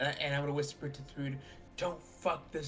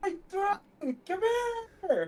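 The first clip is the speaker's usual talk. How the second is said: high, shrill, swooping, far-carrying yell; 3 dB louder than usual. Calling a friend over from a distance in character: yelling. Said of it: "you just yelled Lockhart".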